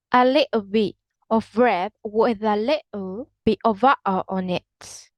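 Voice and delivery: T in "little", "bit" and "butter" swapped for glottal stops; Cockney glottal stops. Shown as a demonstration. Teacher demonstrates Cockney, glottal stop for T in "butter". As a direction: catch the throat instead of T in "butter". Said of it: "to use a glottal stop".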